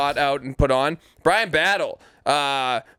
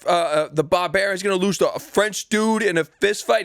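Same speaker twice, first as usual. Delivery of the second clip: higher, cocky, mocking challenge; brash fighter imitation; 4 semitones higher than usual. Cohost joining in on the fighter's taunt, high and cocky. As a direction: ham up the barbarian's brag. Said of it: "You think th".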